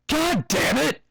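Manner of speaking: high loud angry outburst; furious shout. Acted. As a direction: explode at the muddy foals. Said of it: "I shouted, furious".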